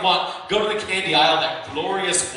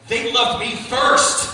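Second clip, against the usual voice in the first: petty taunt; 4 semitones higher, 4 dB louder, much slower than usual. Acted. Sneaky taunt to friends' kids.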